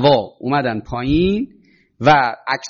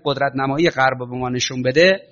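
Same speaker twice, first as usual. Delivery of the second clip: usual speaking voice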